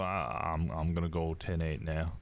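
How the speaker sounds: put-on easygoing Southern cop reporting in, Southern accent; an Englishman's put-on Southern accent, relaxed radio report. Cop reports impounding the vehicle, in a Southern accent. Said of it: "I'm clearly English doing a Southern accent".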